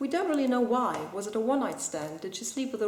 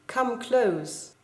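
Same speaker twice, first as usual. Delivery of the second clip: firm, open reading of a poem line; said out clearly, falling at the end; one reading of the line. Shown as a demonstration. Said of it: "If you read it very carefully, it does make a difference".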